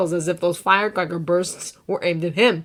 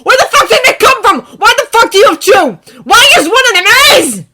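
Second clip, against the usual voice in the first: much higher, louder voice breaking; cracking voice; 16 dB louder than usual. A narrator's reading. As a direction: let the voice crack. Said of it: "His voice cracks again".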